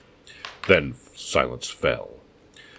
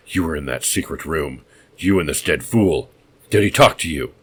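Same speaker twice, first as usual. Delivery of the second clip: suspicious madman; 5 dB louder than usual. Acted. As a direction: turn suddenly on Kane.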